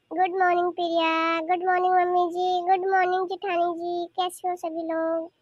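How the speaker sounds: singsong family hello; affectionate greeting. Acted. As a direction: greet each relative lovingly in turn. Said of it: "चाची इतने प्यार से बोल रही है".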